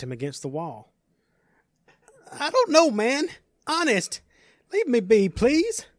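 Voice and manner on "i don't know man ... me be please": high, loud, panicked pleading; frightened begging. Acted. Captured stranger begging the villain to let him go, panicked. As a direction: plead for your life.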